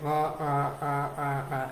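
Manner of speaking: mock monotone drone of a dull lecturer; lightly mimicked monotone lecture drone; droning professor. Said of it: "he's droning on and on".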